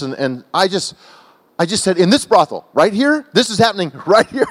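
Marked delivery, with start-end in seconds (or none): 2.0-4.5 higher-pitched incredulous questioning; mildly acted shock, pitch climbing; outraged disbelief. Preacher retelling his challenge to the driver, incredulous. Retold shock at the brothel news.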